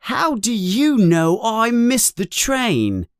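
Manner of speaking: surprised suspicion. A narrator's reading. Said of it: "in surprise and suspicion".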